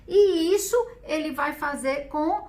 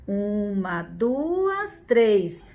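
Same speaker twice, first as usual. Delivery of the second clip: lively syllable count; 4 semitones lower, 4 dB louder, much slower than usual. Shown as a demonstration. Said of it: "a criança vai procurar cavalo".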